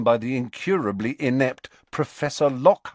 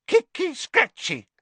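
much higher, gleeful poltergeist squeal; happy Peeves cry; 3 dB louder than usual. Acted. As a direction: cheer the scuffle on with delight. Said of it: "cried Peeves happily".

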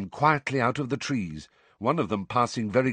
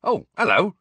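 higher, louder friendly greeting; pleasantly surprised hello; smiling; 11 semitones higher, 6 dB louder than usual. A narrator's reading. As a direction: greet her with a smile in the voice.

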